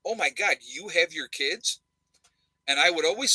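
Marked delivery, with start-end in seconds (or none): 0.0-1.8 mock shocked. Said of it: "they would say it shocked".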